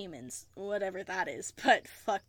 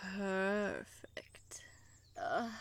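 whispering; 2 semitones lower, 6 dB quieter, much slower than usual. Acted. Intimate whisper.

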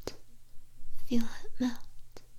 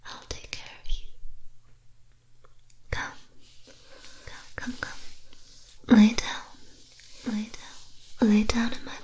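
luring spirit whisper. Acted. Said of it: "I'll put a spell on you".

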